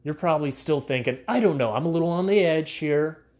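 loud, upbeat sponsor pitch; ad read. Acted. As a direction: sell it like a radio spot. Host reads podcast sponsor ad.

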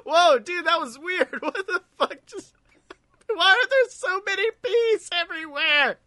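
high, startled, whiny voice; high squeaky voice. Acted. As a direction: squeak it out in alarm. Sudden high put-on voice.

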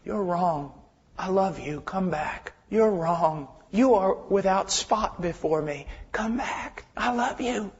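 soft, gentle call, almost whispered; tender God voice. Retold or imitated. Preacher voices the Lord gently calling a sinner back, tender. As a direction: coax the listener home quietly. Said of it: "he says it like this".

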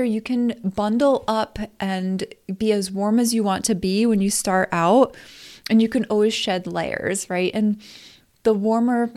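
talking while chewing gum. Real, not acted. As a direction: speak around a piece of gum. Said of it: "I have a piece of gum in my mouth".

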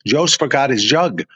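lightly imitated Scandinavian accent; mock Scandinavian accent. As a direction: retell it with a hint of Scandinavian accent. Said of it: "In his Scandinavian accent".

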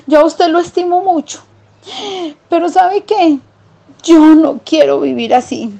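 high little mouse voice, firm no; country mouse refusing. Acted. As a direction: turn down the city life, plainly decided. Country mouse says goodbye. (ratón campesino rechazando la vida de ciudad, voz aguda)

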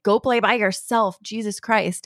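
mild mock snapping; a touch of fed-up judgment; exasperated censure. Parent pushed too far by child, mildly exasperated censure. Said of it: "more like a judgment or, like, censure".

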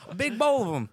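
high, loud taunt through a laugh; laughing mock taunt. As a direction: cackle while mocking the hater. Mock reply continues, laughing.

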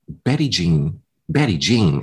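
mock country accent on the name; lightly imitated country accent. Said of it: "saying it like in this country accent".

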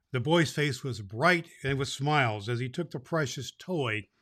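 lively storybook read-aloud; story narration. A narrator's reading. Santa reading the chapter to boys and girls, storytelling voice. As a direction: read it like a bedtime story to a crowd of kids.

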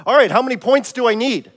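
a touch of sudden eagerness; eager acted question, a bit livelier; lightly acted excitement; mildly excited. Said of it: "Tony gets all excited all of a sudden".

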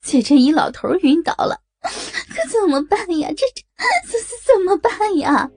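high, stuttering tearful panic; stammering in panic. Acted. Woman stammering to her friend that the old man fainted. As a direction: trip over the words, terrified. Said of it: "结结巴巴地说".

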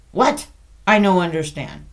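mock Asian-accented confusion; imitating an Asian accent. Caller pretends not to understand, mock Asian accent. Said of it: "This gal was an Asian".

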